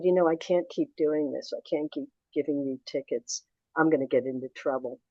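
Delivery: softened, confiding retold plea; quite sweet. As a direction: imitate a gruff woman turned gently apologetic. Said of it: "this time she was quite sweet".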